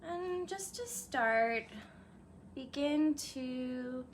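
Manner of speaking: calm yoga nidra guide; guided meditation. Real, not acted. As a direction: ease listeners gently into a meditation, lingering on phrases. Begins leading the meditation.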